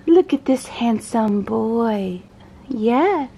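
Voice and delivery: slow, drawn-out cooing; doting pet talk. Real, not acted. Owner admiring dog's new haircut, doting baby talk. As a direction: stretch each word adoringly for the dog.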